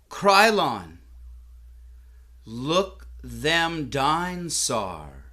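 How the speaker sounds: loud, slow drawled command to a son; hammed-up country dad, stretched out; yokel father's drawl. Father calls to his son, drawled country voice. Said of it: "You see, the zoo had animatronic dinosaurs".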